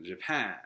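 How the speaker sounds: ジャパン as English "Japan", stress on the last syllable; English pronunciation. Shown as a demonstration. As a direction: say ジャパン the English way, long "pæn". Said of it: "日本語、英語でジャパンを出してくる". (英語発音の「ジャパン」、後ろを強く)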